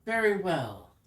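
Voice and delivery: stately spirit granting a request; ghostly elf voice. Acted. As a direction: speak as a cold spirit. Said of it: "she says".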